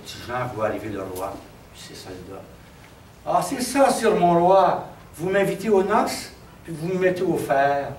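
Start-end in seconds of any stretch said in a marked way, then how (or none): 3.2-7.9 mild acted outrage; indignant reproach. Freed prisoner reproaches the king for trapping him, indignant. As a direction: confront the king with his broken promise.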